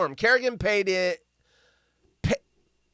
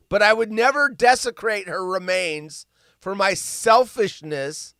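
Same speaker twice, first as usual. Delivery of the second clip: mock indignant quote; 6 dB louder than usual. Reading outraged quote.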